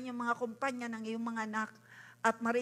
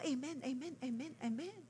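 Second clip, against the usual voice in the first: mock congregation reply; 7 dB quieter than usual. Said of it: "Sabi mo".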